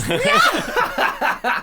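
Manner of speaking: high, loud cackle bursting out; Chucky's maniacal laugh. Retold or imitated. Mocking his bride's marriage hopes, maniacal cackle. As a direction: lose it completely in a mock maniac laugh. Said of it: "He just loses it".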